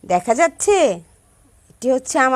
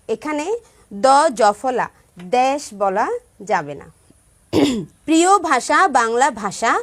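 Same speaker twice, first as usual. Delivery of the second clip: put-on clear, rhythmic children's rhyme recital; measured chant of a children's verse; rhyme recitation. Shown as a demonstration. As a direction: recite it crisply for the class.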